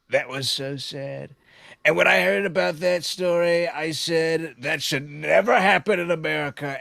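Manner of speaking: lightly voiced Trump telling a story; a hint of Trump spinning a folksy tale; understated Trump storyteller voice; Trump impression. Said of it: "you do the Trump impression better than me".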